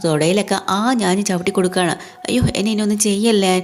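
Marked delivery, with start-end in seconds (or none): 2.3-3.5 begging for mercy. Retold or imitated. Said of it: "എന്നും പറഞ്ഞ് അങ്ങനെ തൊഴുവാണ്".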